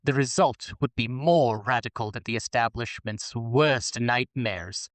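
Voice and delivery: slow, breathy perfume-ad read; sultry voice. Acted. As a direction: purr it like a perfume commercial. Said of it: "I'm doing the sultry voice for heterosexuality".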